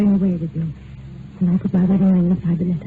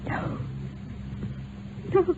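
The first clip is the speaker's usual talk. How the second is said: stunned denial; 9 semitones higher, 11 dB quieter than usual. Acted. Wife hears husband is dead.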